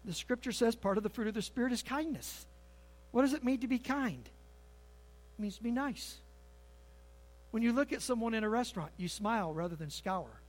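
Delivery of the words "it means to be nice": soft whisper. Acted. Pastor softly defines kindness.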